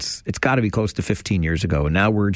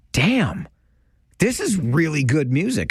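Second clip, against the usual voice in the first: impressed listener; 6 semitones higher than usual. Retold or imitated. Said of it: "you'll be like".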